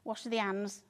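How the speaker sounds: "Wash the hands" with no H, said "ands"; dropped H. Shown as a demonstration. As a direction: drop the H in "hands" the Yorkshire way. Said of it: "It's just dropping H's".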